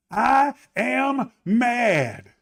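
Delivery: slow, drawn-out "I am mad"; mock the listener declaring anger; imitating someone angry. Preacher voicing a listener who says he is mad, drawn out. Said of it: "you say".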